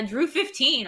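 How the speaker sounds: spelling out the code slowly; slow and clear. Shown as a demonstration. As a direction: read the code deliberately, word by word. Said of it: "all caps".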